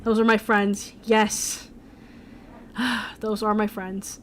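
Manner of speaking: mildly pained, resigned owning up, with a sigh midway; exasperated admission. Retold or imitated. Embarrassed guy admitting to her those are his friends, mildly exasperated. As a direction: admit it reluctantly, sighing before repeating it. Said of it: "he kinda just face palms".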